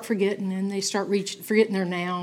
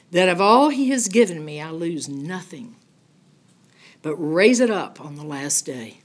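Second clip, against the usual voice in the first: louder, solemn Bible reading; scripture reading; 4 dB louder than usual. Acted. Teacher reading John chapter six to the class, solemn and louder. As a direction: read the verses as a proclamation. Reads verse thirty-seven aloud.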